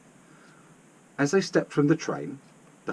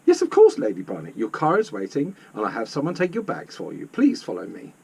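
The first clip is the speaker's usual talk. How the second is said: obliging desk lady. Acted.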